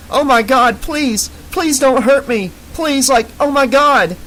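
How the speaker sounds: high, loud, pleading panic; fearful blubbering. Acted. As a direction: beg for your life, blubbering. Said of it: "blubbering fearfully".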